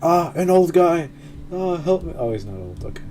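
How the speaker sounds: ordinary talk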